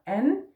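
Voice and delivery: "N" said with a flat A vowel. Shown as a demonstration. Teacher modelling the first syllable with a flat A. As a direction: give N a flat A sound. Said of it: "N with a flat A".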